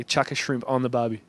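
measured Australian catchphrase demo; Australian accent. Shown as a demonstration. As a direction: model the Aussie phrase for a learner. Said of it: "You gotta say".

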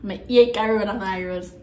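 "hate" said Jamaican-style as "yeet", no h; Jamaican patois. Shown as a demonstration. Vlogger showing viewers the translation, in Jamaican patois. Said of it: "translate this in patois".

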